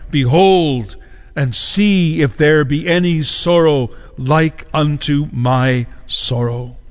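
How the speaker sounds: very slow, drawn-out pulpit quotation; solemn scripture lament. Acted. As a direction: stretch out each phrase gravely. Quotes Christ's lament from the pulpit.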